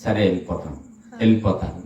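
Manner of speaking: put-on low, soft, meek voice of a child backing off; child giving in. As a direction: mumble like a kid who gives up. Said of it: "అంటే".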